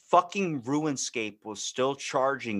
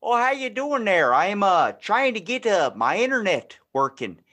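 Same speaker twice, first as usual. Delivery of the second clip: put-on higher and louder folksy old dad; clueless dad; 4 semitones higher, 5 dB louder than usual. Clueless dad calling his internet provider, folksy voice. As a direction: play a cheerful clueless dad. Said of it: "that dad that doesn't actually know".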